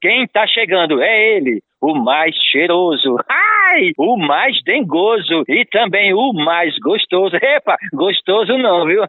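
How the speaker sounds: high, teasing circus clown; playful clown voice. Acted. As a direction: hype the crowd as a silly clown. Clown Coceirinha introduces himself.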